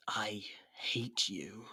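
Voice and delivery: slow, breathless whisper; whispered confession. Acted. Captive admitting her feelings to the captor, slow whisper. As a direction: let it slip out, barely voiced. Confession under truth potion.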